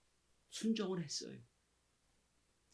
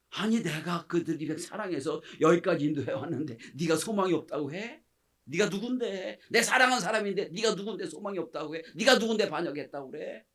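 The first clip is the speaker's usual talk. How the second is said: indignant rebuke; 3 semitones higher, 5 dB louder than usual. Acted. Preacher voicing God's hurt rebuke.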